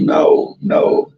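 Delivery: whispery mock-tearful pleading; imitated weepy begging, mostly breath; retold emotional plea. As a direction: act out an emotional, voiceless protest. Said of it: "I was so emotional".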